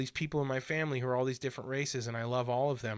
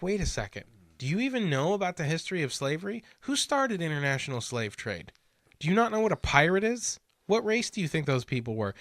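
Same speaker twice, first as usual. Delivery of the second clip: louder and higher, building to an indignant shout; heated rebuttal; 4 semitones higher, 4 dB louder than usual. Retold or imitated. Arguing with liberals about slavery history, indignant rising shout. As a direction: fire the questions back in mounting outrage.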